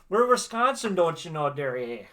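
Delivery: put-on playful thick Wisconsin accent, don't you know. Playful Wisconsin accent for the chat. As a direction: ham up the Upper Midwest twang for the chat. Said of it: "we don't have a British accent".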